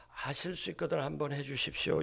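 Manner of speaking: soft, lightly acted humble request; subdued request. The father asks Jesus for help, subdued request. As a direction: ask gently, voice kept down. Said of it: "한번 이렇게 생각해 봐요".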